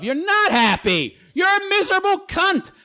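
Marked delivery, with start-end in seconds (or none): 1.3-2.7 scornful jab. Real, not acted. Host insulting the woman.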